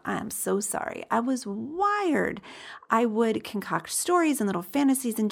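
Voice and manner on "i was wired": "wired" said slowly and clearly, with a falling tune; slow and deliberate. Real, not acted. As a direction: spell out "I was wired" slowly and firmly as a correction. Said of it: "that word took me a minute to get out".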